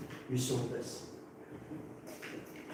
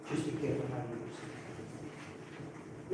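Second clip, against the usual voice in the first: much lower and softer, slow, almost under the breath; hushed warning; 6 semitones lower, 14 dB quieter, slower than usual. Real, not acted. Teacher to his class, quietly warning them about phones. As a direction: drop the voice for a serious caution.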